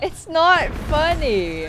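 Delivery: loud, slow laughing protest. Real, not acted. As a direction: say it while giggling. Teammate cracking up while protesting.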